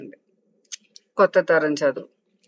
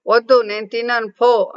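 put-on sulky child; 4 semitones higher, 4 dB louder than usual. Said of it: "అంటూ అనన్య రూమ్లోకి వెళ్ళిపోయింది".

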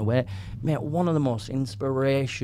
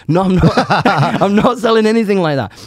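loud, laughing it off, higher; laughing denial; 9 semitones higher, 7 dB louder than usual. Real, not acted. Denies selling drugs, laughing.

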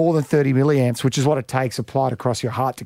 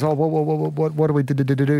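stutter. Acted. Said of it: "he goes in with a stutter".

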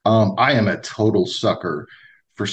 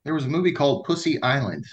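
casual, offhand delivery; nonchalant; 4 semitones higher, 3 dB quieter than usual. Real, not acted. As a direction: say it totally deadpan, no reaction. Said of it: "you said that so nonchalantly".

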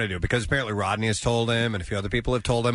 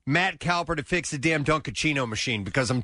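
worked-up, higher-pitched rant; yelling complaint; 6 semitones higher than usual. Real, not acted. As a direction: make a fed-up, emphatic demand. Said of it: "I'm standing up and I'm yelling about it".

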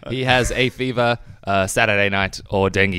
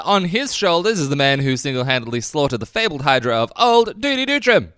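announcer voice. Acted. Grand announcer introduction.

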